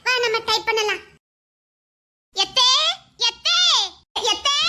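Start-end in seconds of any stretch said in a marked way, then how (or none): 2.3-4.6 repeated rising call. Acted. Daughter-in-law arriving and calling for her mother-in-law, calling out. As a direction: call out for someone in the house, lifting the end.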